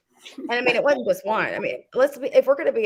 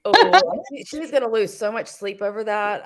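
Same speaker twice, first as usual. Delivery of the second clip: dry sarcastic jab; slower than usual. Real, not acted. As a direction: say it dripping with sarcasm. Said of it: "That was sarcasm".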